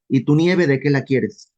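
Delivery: slow, dry sarcastic quip. Pretend. Preacher paraphrasing Isaiah as a sarcastic Mexican saying, slow and dry. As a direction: deliver it slowly, dripping sarcasm. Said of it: "una frase así de sarcástica".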